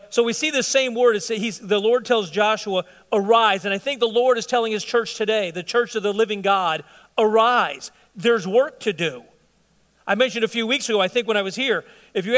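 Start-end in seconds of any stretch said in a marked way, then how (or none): 3.1-3.7 commanding call. Acted. God's command quoted in sermon. 7.2-9.2 commanding call. Acted. God's call to church quoted.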